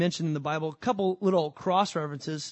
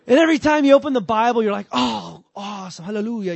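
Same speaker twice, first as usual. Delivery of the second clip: much louder, higher and faster with excitement; excited joy; 4 semitones higher, 10 dB louder than usual. Real, not acted. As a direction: burst out with glee over the Bible. Excited Bible reading joy.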